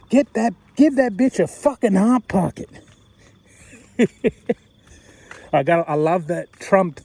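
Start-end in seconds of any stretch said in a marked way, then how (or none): 0.1-2.7 imitating friend. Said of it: "I love it when you said".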